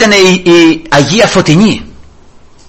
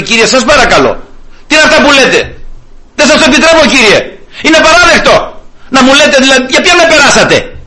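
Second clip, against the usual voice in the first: hammed-up offended protest, higher; mock indignation; 6 semitones higher than usual. Preacher imagining an offended woman protesting, mock indignant. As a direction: pretend she is affronted.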